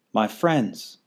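a touch of a glad cry; mild cry. Acted. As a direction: call out with relief. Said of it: "cried the elephant".

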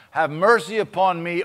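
loud pleading read of the psalm; psalm as prayer. Acted. Pastor voices David pleading for mercy, loud. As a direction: beg God through the psalm.

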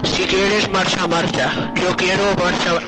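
deep pitch shifted. Pretend. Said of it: "ponga la voz distorsionada".

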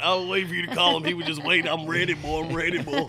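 loud, high hillbilly character voice; Jeffrey Bodine voice. Acted. Guest greeting the host in his character voice, loud and high. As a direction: belt it out as a rowdy country boy. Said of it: "Jeffrey Bodine".

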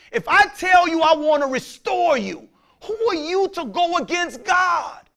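rising into a preached shout; stern shouted rebuke from God; voice of God rebuking. Acted. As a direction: thunder it back at them as God.

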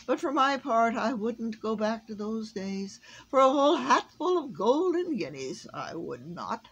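high, loud oratory dropping at the end; pompous Wogglebug. A narrator's reading. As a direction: orate grandly, then drop for the refusal. Voices the Wogglebug.

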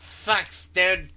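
lisping fish with no lips. Pretend. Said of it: "Fish lisp".

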